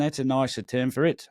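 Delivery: light Australian accent. Shown as a demonstration. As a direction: say it like an Aussie. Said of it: "I'm doing an Australian accent".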